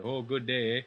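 lightly exaggerated Canadian hoser accent; Canadian plains accent. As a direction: put on a folksy Canadian "eh" accent. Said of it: "I have actually heard people talk like that".

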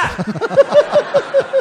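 loud crowd laughing; big laugh from the room; audience laughter. Real, not acted. Audience at the comedy club laughing loudly at the joke.

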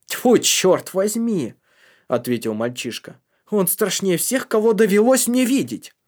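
raving shout. Acted. Kalgrim raves about the devil.

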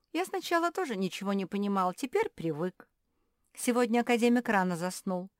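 plain reading voice

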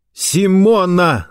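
high, drawn-out call; high horrified cry; anguished shout. A narrator's reading. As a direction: cry out the name in alarm, stretched long. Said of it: "закричал Рауль".

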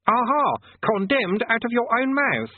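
high, loud, slow triumph; triumphant gotcha. Acted. Conjurer catching Rincewind out, loud triumphant crow. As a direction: pounce on the confession.

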